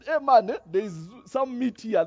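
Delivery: a loud cheerful call to the house. Retold or imitated. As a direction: hail them across the yard, pitched high. Son calls out about the meat.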